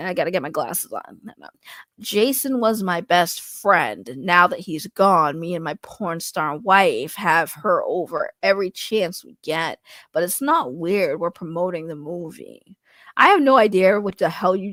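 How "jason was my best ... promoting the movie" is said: reading as Aaron. Acted. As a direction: read it like a laid-back man keeping his cool. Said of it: "let me read this as Aaron".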